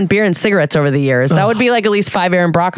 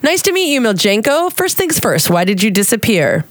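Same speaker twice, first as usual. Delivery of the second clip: a hint of an eager reporter; interviewer voice. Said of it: "I love your Russian accent".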